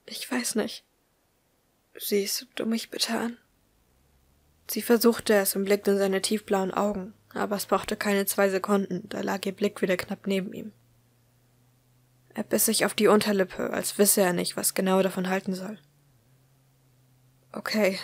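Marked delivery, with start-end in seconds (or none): 0.1-3.4 soft, whispered nervous plea. A narrator's reading. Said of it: "Sie lächelte nervös". 17.5-18.0 whispered, resigned okay; quiet murmur. A narrator's reading. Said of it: "murmelte er schließlich leise".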